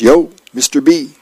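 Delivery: eager kid calling on a neighbor, lightly acted; a hint of an excited little boy; lightly voiced little kid. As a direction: read it as a keen kid, lightly. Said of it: "little kid peeks his head in and says".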